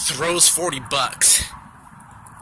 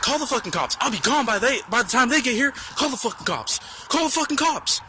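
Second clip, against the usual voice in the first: pitched-up furious taunting at the clerk; hammed-up rage, voice climbing higher each time; mock angry yell; 8 semitones higher than usual. Angry customer taunting the clerk, mock yell climbing higher.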